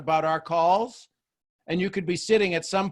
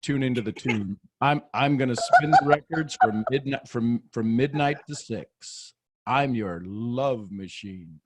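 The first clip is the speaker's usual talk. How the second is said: lower, slow late-night radio host; 5 semitones lower than usual. Shown as a demonstration. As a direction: croon it like a midnight DJ. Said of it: "here's gonna be my radio D J voice".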